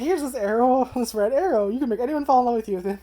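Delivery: high, loud, bubbly angel voice; upbeat angel. Retold or imitated. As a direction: imitate an adorable, upbeat angel girl. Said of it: "she has a very upbeat voice".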